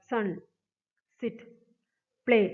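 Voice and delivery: "സൺ", "സിറ്റ്", "പ്ലേ", each in a single short beat; one sound each. Shown as a demonstration. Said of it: "ആ പ്രൊനൗൺസിയേഷനും ആ ഒരു". ("സൺ", "സിറ്റ്", "പ്ലേ" ഓരോന്നും ഒറ്റ ശബ്ദത്തിൽ)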